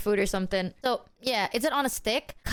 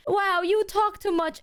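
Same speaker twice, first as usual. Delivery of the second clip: high, slow mock scolding; raised-pitch mimicry of a fed-up mother; imitated unimpressed mom; 9 semitones higher than usual. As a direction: put on mom's voice, drawing out each word. Imitating mother scolding talkative child.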